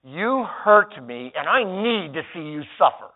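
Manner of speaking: acted inner resentment; mock angry thought. Shown as a demonstration. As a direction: spit out the grudge. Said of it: "and the thought is this".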